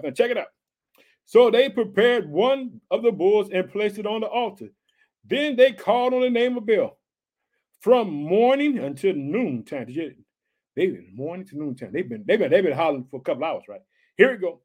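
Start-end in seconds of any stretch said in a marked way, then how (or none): 1.3-9.9 lifted, emphatic narration; scripture reading. A narrator's reading. Preacher reading of the bulls on the altar, emphatic. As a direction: proclaim the story, landing hard on key words. Reads scripture aloud to congregation.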